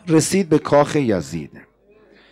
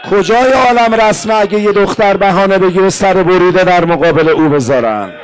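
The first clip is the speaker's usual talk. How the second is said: preacher's mournful outcry; indignant rebuke. Acted. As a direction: scold them with grief and fury. Preacher rebukes the people of Sham.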